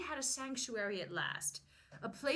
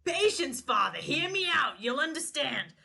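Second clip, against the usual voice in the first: louder earnest plea to the priest; mock pleading penitent; 3 semitones higher, 5 dB louder than usual. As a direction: beg the priest to listen, overdone. Playing confessor pleading.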